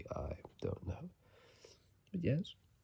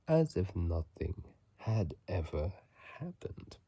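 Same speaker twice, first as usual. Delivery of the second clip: louder, dramatic lore reading; reading item lore; 3 dB louder than usual. Acted. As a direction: read it like ancient scripture from the item text. Reads item description aloud.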